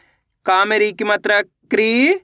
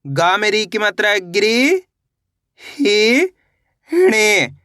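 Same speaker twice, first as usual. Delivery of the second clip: very slow, each syllable drawn apart; much slower than usual. Shown as a demonstration. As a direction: spell it out slowly, piece by piece. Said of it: "कैसे पढ़ेंगे?". (अक्षर-अक्षर धीरे-धीरे)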